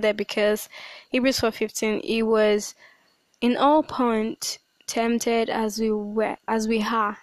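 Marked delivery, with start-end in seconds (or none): 3.4-7.2 slow deliberate scripture quote; slow quoting. Acted. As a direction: weigh each word.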